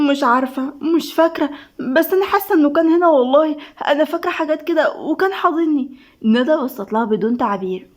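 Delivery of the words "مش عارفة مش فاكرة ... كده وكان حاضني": higher-pitched worried uncertainty; mildly flustered, insisting it happened; anxious. Acted. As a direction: fumble anxiously for a hazy memory. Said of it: "وهي بتهرش في دماغها بقلق".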